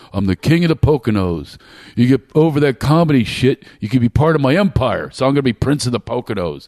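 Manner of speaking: lightly voiced boastful dad; a hint of dad holding court; imitated father. Cult-leader father offering his child a place in the empire, lightly imitated. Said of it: "I'll talk like him".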